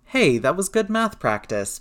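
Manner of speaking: high, indignant mock protest. A narrator's reading. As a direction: object playfully, voice jumping up. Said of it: "Peter protested".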